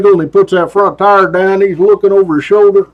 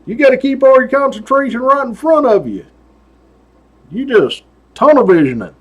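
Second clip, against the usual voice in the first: higher lightly voiced lecture; a hint of trooper lecturing the caught biker; 5 semitones higher than usual. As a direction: lecture the rider like a stern trooper. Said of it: "I'm like".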